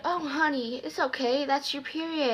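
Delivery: comforting mom. Retold or imitated. Voicing mom comforting her.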